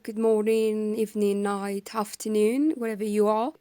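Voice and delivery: hoarse from a cold; sick, husky voice. Real, not acted. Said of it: "If it sounds like I have kind of like a husky voice".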